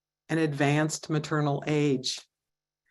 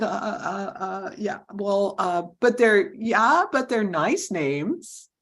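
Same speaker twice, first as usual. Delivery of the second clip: stuttering husband; slower than usual. Retold or imitated. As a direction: stammer it out like a caught husband. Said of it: "he stuttered back his answer".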